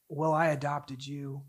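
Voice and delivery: soft, low answer; gentle reply. Retold or imitated. God gently answering a distressed mother, soft and low.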